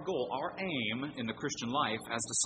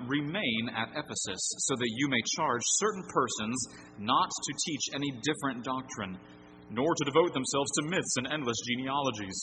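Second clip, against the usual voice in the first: scripture reading. Acted. Pastor reads the text to the congregation, solemn and measured. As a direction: read the passage as holy words.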